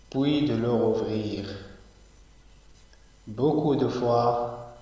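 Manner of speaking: measured poem reading, each line set apart by a pause; unhurried classroom poem recital; poetry recitation. Acted. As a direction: recite slowly, lifting each new verse and easing off on the repeats. Recites the poem a second time.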